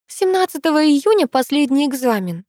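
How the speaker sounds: put-on light, pleased girlish voice; smiling. A narrator's reading. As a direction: say it with a smile. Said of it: "улыбнулась Шацкая".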